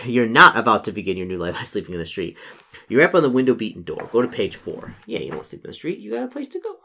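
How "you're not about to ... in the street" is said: real chuckle, then firmly stress "not"; amused correction. Real, not acted. Reader correcting the story for the player, amused correction. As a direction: laugh into it, leaning on "not". Laughing correction of the misread option.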